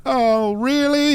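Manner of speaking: put-on a startled old man on speakerphone; imitating old man. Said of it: "And he went".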